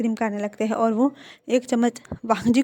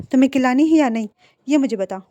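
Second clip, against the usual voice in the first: bossy demand; 2 semitones higher, 5 dB louder than usual. Acted. Wing demands more ice cream.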